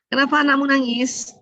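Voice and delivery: lightly voiced disapproving mother-in-law; mother-in-law's questioning. Mother-in-law questioning a young mother about the crying baby, mildly reproachful. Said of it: "intonasi aja udah beda tuh".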